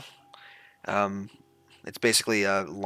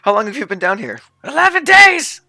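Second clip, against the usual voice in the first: squeaky kobold voice; 12 semitones higher, 14 dB louder than usual. Acted. GM voicing kobold NPC.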